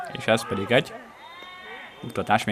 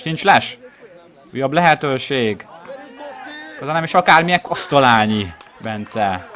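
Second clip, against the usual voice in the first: higher, louder call, name slowed; excited commentary; 4 semitones higher, 4 dB louder than usual. Real, not acted. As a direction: stretch the name on the miss. Another big chance. (izgatott helyzetkiáltás)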